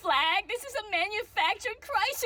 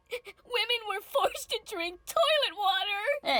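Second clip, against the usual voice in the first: slow, hammed-up tearful line; milk the tragedy slowly; mock sob; slower than usual.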